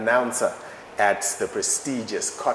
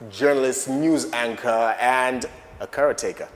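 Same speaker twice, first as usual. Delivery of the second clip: announcer voice; 2 semitones higher, 5 dB louder than usual. Acted. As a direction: introduce the star guest like a showman. Grand guest introduction.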